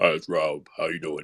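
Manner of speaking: deep, dropped-down voice. Retelling trying to do Rob's voice last night: imitating Rob's voice. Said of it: "I was trying to do your voice".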